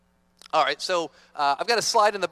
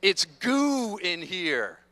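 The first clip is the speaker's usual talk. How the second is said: slow caterpillar voice; much slower than usual. Pretend. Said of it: "What's it say?".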